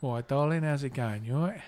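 lightly put-on southern English accent; casual greeting in mock southern English. Shown as a demonstration. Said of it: "You know my southern voice".

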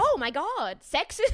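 mock outrage, "sexist" squeaked high and loud; mocking quote. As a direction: parody his sneer. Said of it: "And he was like".

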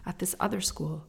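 unvoiced, secretive whisper. Real, not acted. Whispering a secret hint to her viewers.

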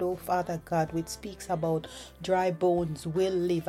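soft, earnest spoken prayer. Acted. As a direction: pray quietly, hushed and sincere. Leads a prayer.

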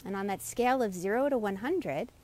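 calm, unhurried meditation guide voice; guided meditation. Acted. Leads a meditation.

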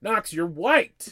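mother half-joking exclamation to her son; blurting exclamation. Retold or imitated. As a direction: call it out to him, insisting. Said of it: "I also wanna be like".

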